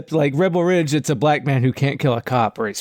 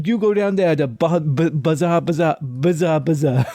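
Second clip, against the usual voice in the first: mock Boston accent; 2 semitones higher than usual. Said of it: "that accent just comes back".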